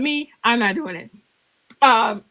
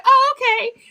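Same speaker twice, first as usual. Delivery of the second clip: put-on child voice; 11 semitones higher, 5 dB louder than usual. Granddaughter accepts explanation.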